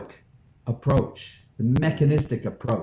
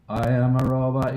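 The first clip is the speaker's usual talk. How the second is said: even spoken robot voice. Shown as a demonstration. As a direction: say it like a robot, level. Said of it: "I want you to say this".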